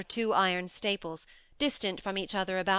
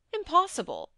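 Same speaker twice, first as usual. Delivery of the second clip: astonished exclamation; 10 semitones higher, 4 dB louder than usual. Acted. Fortunato's astonished outburst.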